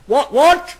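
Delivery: high, startled grandma; grandma hearing a swear, high and startled; shocked grandma. Pretend. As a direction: yelp it up high like a shocked granny. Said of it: "She'd be like".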